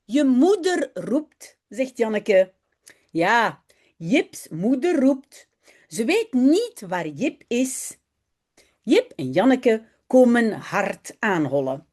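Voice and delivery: slow, careful reading aloud for learners; story reading. A narrator's reading. Teacher reading a Dutch story aloud to her students. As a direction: read each sentence slowly and clearly.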